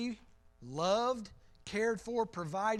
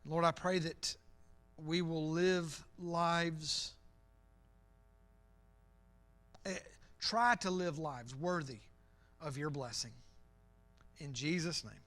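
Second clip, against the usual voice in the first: prayer; 4 semitones lower than usual. Real, not acted. Leads the closing prayer.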